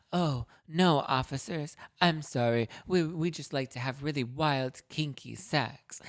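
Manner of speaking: high, coy voice, stretching kinky sex slowly; breathy-sounding hammed-up seductress; mock flirty innocence. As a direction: play the innocent tease for the cops. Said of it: "and she's like".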